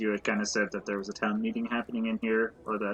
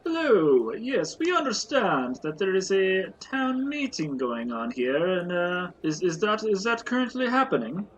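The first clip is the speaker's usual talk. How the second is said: higher, eager polite voice; polite adventurer; 5 semitones higher than usual. Acted. Adventurer asks barkeep about the town meeting, eager. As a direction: ask politely, keen to know. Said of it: "player speaks in character to barkeep".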